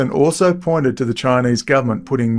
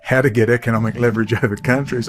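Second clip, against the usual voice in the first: chuckling mid-sentence; a laugh breaking into the words; faster than usual. Real, not acted. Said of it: "I'm sorry".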